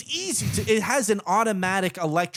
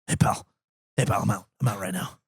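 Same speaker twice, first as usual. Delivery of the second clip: lower, lazy imitation of the roommate; the guest's voice; 8 semitones lower, faster than usual. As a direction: do his offhand low-voiced 'hey pal'. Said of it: "you have to do the voice too".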